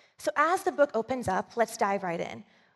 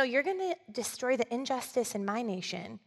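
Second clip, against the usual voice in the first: incredulous protest; 3 semitones higher than usual. Retold or imitated. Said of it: "I can imagine him just thinking".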